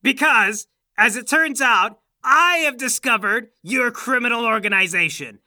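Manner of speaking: lightly hammed-up grand proclamation; mock villain boast. Old man announces his deed to his son, grandly villainous. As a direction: declare it like a gloating villain.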